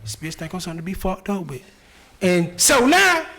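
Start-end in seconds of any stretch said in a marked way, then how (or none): 0.0-1.6 flat, low, quiet monotone; deadpan it in one flat tone. Retold or imitated. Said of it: "he responds real monotone like".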